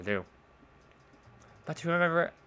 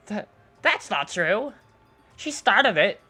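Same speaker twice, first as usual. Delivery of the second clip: put-on angry girl voice; 3 semitones higher, 7 dB louder than usual. Natsuki arguing.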